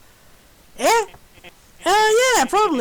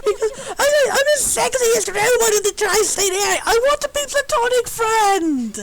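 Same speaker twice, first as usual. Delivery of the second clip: whiny half-laughing fake cry; a wounded robot sobbing through a boast; hammed-up sob; 5 semitones higher than usual. Rejected robot sobbing her boast, half laughing.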